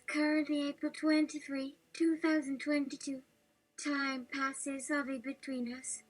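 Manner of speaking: put-on lightly hesitant, breathy young girl; a hint of a nervous girl reading. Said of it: "the young girl voice, the hesitant, very breathy, like, nervous breath".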